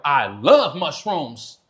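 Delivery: slow, dreamy stoner drawl; lightly voiced stoner savoring the word; lazy stoner. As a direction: stretch it out like a happy stoner. Imitating a rapper.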